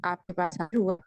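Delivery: choppy cutting-out audio; bad connection. Real, not acted. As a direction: voice breaking up over a bad line. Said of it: "ان کی آواز کٹ رہی ہے نا sister ماں کی؟". (خراب کنکشن، ٹوٹتی آواز)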